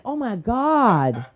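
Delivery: mock panic. Host to comic, slow hammed-up panic.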